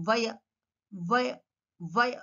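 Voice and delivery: "వయ" as via, teeth on bottom lip; V sound. Shown as a demonstration. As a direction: start "వయ" with V. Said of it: "teeth should touch the bottom lip".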